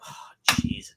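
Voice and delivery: breathless whispered oh jeez; a barely voiced groan of dismay. The speaker dreading the request, whispered dismay.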